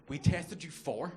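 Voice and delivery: slow, drawn-out tease before the reveal; slow suspense build like a game show; dramatic pause. Retold or imitated. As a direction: stretch it and leave them hanging. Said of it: "he left a beat".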